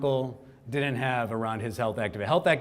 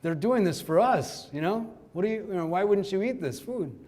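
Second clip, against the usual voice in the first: a mock uncle's lecture, slowed and raised; scolding uncle; 5 semitones higher than usual. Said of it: "he's actually scolding me".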